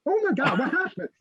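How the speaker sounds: imitating a shocked sudden realization; mock panic. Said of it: "I don't wake up going".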